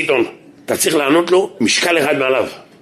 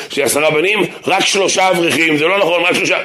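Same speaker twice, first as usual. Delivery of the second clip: 1 apologetic; 3 semitones higher than usual. Retold or imitated. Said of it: "כאילו מתנצל".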